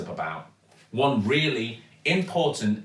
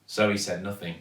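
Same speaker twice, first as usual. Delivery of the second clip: ordinary delivery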